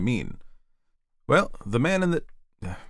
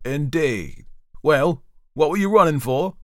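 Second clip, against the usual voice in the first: high, loud interrogating judge; raised, sceptical official voice; questioning magistrate; 5 semitones higher, 6 dB louder than usual. A narrator's reading. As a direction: demand an explanation from the bench. Magistrate carries on questioning the prisoner.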